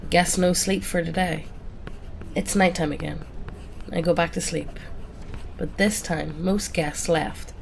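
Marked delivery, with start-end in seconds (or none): none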